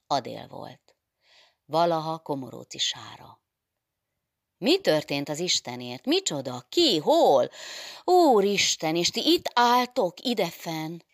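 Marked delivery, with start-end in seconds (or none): 4.6-11.0 loud, high burst of startled questions; rising to a high, loud exclamation; alarmed outcry. Acted. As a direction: cry out in shocked disbelief. Adél raises the alarm on arrival.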